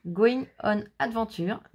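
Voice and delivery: slow English with a French accent. Real, not acted. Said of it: "t'aimes mon accent anglais".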